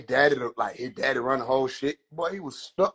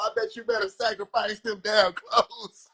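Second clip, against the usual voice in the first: mama voice; 5 semitones higher than usual. Acted. Mama mocking son's sacrifice plan.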